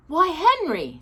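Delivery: surprised wife to husband; exclaiming. Acted. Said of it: "she exclaimed".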